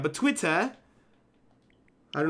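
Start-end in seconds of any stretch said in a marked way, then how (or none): 0.1-0.7 Twitter with a rising, open "-tah" ending; odd accented pronunciation. Real, not acted. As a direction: let Twitter end on a lifted "tah". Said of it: "I don't know why I said it like that".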